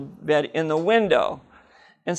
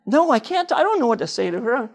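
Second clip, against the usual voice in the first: anxious; 6 semitones higher than usual. Retold or imitated. Anxious back and forth.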